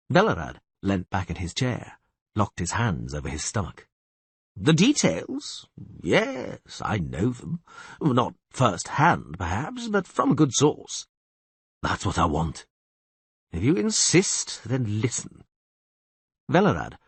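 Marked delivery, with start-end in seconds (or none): 4.5-15.4 knowing castellan. Acted. Castellan confiding details.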